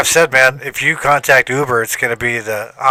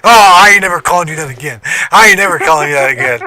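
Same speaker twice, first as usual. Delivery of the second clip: giggling retort; 4 semitones higher, 5 dB louder, faster than usual. Retold or imitated. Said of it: "I was just giggling".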